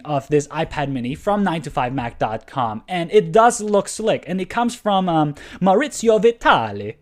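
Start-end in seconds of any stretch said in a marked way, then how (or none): 5.6-7.0 put-on name said with a playful Italian accent. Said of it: "say that in an Italian accent".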